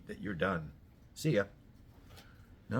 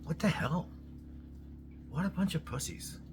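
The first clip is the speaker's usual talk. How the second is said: higher, disgusted scoff at the whiners; scornful outburst; 8 semitones higher than usual. Real, not acted. Ranting at people whining online, higher scornful outburst. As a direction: spit out the contempt.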